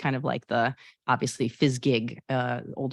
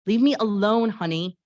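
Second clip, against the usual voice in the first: a sharp, louder leave-me-alone; sister's brush-off; 5 semitones higher, 4 dB louder than usual. Acted. Honey quotes her sister shutting her out, sharp. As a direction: push her away. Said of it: "pretend I can act".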